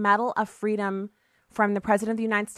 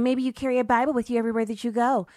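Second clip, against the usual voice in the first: mocking critic; 3 semitones higher, faster than usual.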